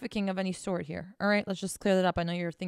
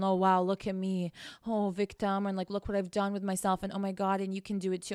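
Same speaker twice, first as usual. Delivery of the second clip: mock self-pity; 5 dB quieter than usual. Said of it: "I'm not out here saying".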